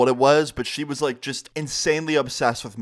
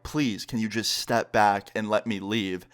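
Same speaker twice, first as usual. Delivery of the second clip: low, slow, polite plea; asking nicely; 4 semitones lower, slower than usual. Retold or imitated. Asking mom to let him leave, nicely. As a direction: imitate a calm request, drawn out and lower. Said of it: "I try asking nicely".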